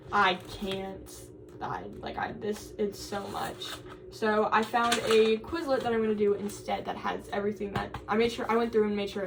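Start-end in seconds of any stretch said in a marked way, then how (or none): 0.1-3.7 overwhelmed whisper. Retold or imitated. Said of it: "and I was like".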